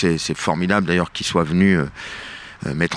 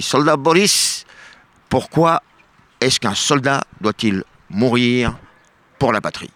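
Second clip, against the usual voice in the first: mock general; 4 semitones higher than usual. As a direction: play the general inspecting troops. General questions soldier in joke.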